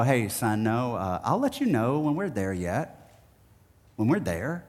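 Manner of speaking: calm father brushing off his son; patient dad. Retold or imitated. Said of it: "And my dad at first would go".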